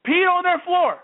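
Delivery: stunned outrage, stressing Peed; incredulous outburst. Real, not acted. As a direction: spit it out in shock that anyone would do this. Outraged repeat of claim.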